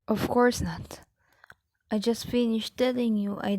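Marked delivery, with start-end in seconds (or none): 0.1-1.0 hushed, breathy refusal; whispering. Acted. Mother whispers her answer beside the phone. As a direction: keep it so the caller can't hear.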